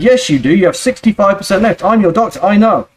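lightly voiced stern Brooklyn accent; a hint of a firm Brooklyn doctor; heavy Brooklyn accent. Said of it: "speaking in his heavy Brooklyn accent".

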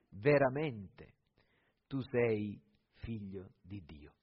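measured Gospel reading with long pauses; solemn, dramatised Bible reading; scripture reading. Acted. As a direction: read scripture aloud to a congregation, phrase by phrase. Reads the Gospel aloud to congregation.

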